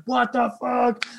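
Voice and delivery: acted angry disbelief, drawn out and high; imitated mad bandmate. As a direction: drag it out like an exasperated drummer. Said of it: "He's gonna be mad".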